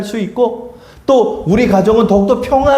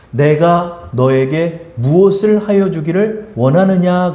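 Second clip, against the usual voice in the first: slow solemn Jesus voice; 2 semitones lower, slower than usual. Acted. Jesus quoted slowly.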